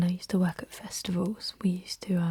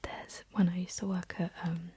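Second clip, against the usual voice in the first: ASMR whisper. Real, not acted. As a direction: whisper it close and unhurried, like ASMR. Whispered ASMR ramble throughout.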